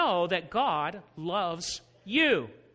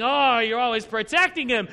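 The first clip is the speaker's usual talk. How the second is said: mock complaining; 5 dB louder than usual. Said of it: "And he's complaining".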